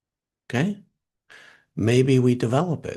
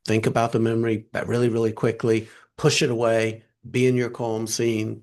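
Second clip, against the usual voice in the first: rapid task switching. Shown as a demonstration. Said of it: "we're doing really rapid task switching".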